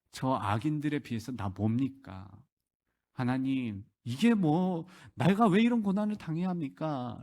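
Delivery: dropping down, then rising into protest; aggrieved questioning. Retold or imitated. Job asking God why he must suffer, mildly protesting. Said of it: "욥이 따지는 모습".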